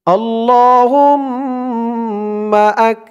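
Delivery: slow chanted Arabic recitation. Shown as a demonstration. Teacher recites the dua phrase for learners, slow chant. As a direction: intone the phrase slowly and melodically.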